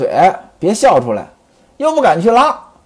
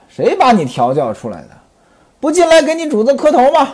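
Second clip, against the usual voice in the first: mock scolding. 孟玉楼 fakes scolding the maid.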